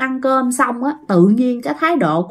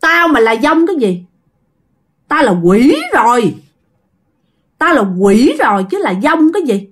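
spirit's retort. Acted. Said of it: "Thì nó trả lời làm sao".

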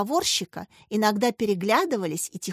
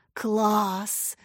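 rapturous breath. A narrator's reading. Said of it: "восторженно выдохнул".

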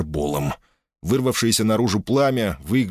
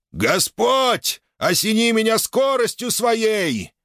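fervent battle prayer; 14 semitones higher, slower than usual. Acted. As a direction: cry out to heaven. Knight prays in battle. (горячая молитва)

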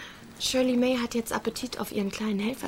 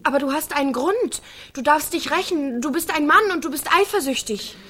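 louder, pressing him harder each line; insistent urging; 4 semitones higher, 5 dB louder than usual. Acted. Carrie goads Pete into hurting him, insistent urging. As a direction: egg him on, rising heat.

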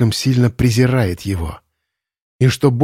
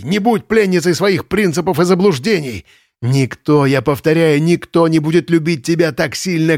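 frantic urging; 5 semitones higher than usual. Acted. Lenz frantically urges Irina.

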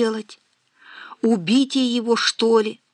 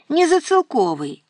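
heated objection; 8 semitones higher than usual. A narrator's reading. Daughter objecting hotly to her mother, high and heated. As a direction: snap back in a flare of temper. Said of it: "возразила Ирка запальчиво".

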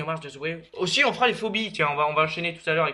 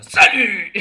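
Stallone voice; 3 semitones higher, 8 dB louder than usual. Pretend. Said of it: "À la Stallone".

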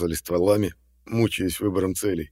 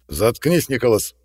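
loud, sharp angry bark; angry snap; 4 semitones higher, 6 dB louder than usual. A narrator's reading. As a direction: cut him off hard. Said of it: "зло рявкнул МакГрегор".

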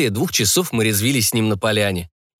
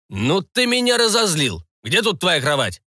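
angry pirate; 8 semitones higher than usual. A narrator's reading. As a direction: threaten in anger.

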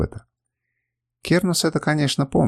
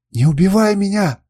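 pleading; 8 semitones higher, 5 dB louder than usual. A narrator's reading. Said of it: "бормотал он".

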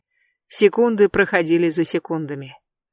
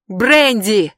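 loud yell, voice raised; 4 semitones higher, 5 dB louder than usual. Acted. Jeb yells up at Brandi, loud yell. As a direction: shout her name across the platform. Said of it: "завопил он".

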